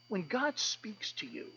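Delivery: slow, hushed whisper; a soft, slow whisper about God's voice. Real, not acted. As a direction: lean in and breathe it like a secret. Intimate aside about God.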